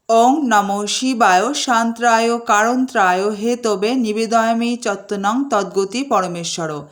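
slow devotional intoning; slow mantra recitation. Acted. Host bowing to Shiva, slow devotional recitation.

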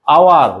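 আওয়ার said opening on আ, no h; silent h. Shown as a demonstration. Teacher models আওয়ার without h for the class. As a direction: start আওয়ার straight on আ. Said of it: "আমি বলছি এর উচ্চারণটা কেমন হয়?".

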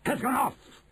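high, drawn-out witch screech; slow, piercingly high witch cry; shrieking Grand High Witch. A narrator's reading. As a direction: shriek it in triumph, stretching the words. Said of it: "shrieked the Grand High Witch".

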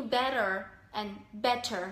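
American or British "better", shown as an example; demonstrating American and British "better"; American vs British demo. Shown as a demonstration. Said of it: "tiếng Anh Anh thì khó hơn".

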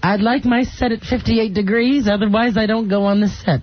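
lightly voiced old Hollywood diva; a hint of grand film star; Joan Crawford impression. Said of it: "The real Joan Crawford sounded like this".

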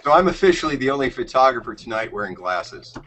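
talking around a cigar; cigar in mouth. Real, not acted. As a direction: cigar clamped in mouth, speaking. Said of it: "can you do your introduction with your cigar in your mouth".

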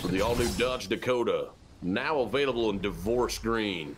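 mock truck-commercial read; lightly voiced commercial announcer; parody ad announcer. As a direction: deliver it like a car advert, slightly low.

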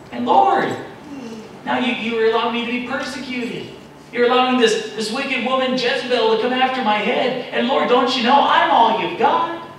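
Elijah's complaint. Acted. Elijah complaining loudly to the Lord about persecution. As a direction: pour out the grievance to God. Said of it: "be like Elijah".

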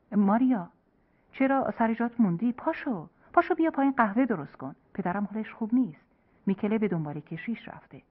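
hurried and worried, rousing his wife; anxious urging. Acted. Husband rushing in to wake Maria, agitated. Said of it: "با صدایی مشوش گفت".

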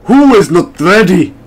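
bad mock-Russian accent, loud; hammed-up, poorly done Russian accent; terrible Russian accent. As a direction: put on a clumsy Russian accent. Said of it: "That's a terrible Russian accent".

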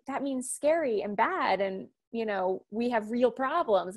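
mock grave husband. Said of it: "he was just like".

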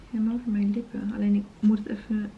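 whispering. Real, not acted. Whispering while trying lipstick.

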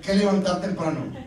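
laughing loud sermon line; loud preaching. Real, not acted. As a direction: drive the point home to the men. Preaching point loudly.

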